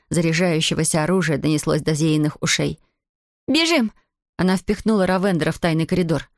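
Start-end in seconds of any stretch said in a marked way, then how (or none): 3.5-3.9 urgent yell. Acted. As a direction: shout them into motion. Fleeing a charging gun.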